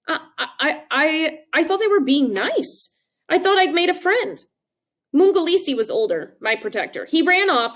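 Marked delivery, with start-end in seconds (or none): 0.1-4.4 put-on stammering child. Young Trevor stammering.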